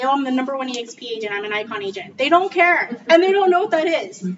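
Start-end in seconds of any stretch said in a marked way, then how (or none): 0.0-2.2 fast bragging list; bragging rattle. Retold or imitated. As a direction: rattle off credentials quickly. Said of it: "vomit and say".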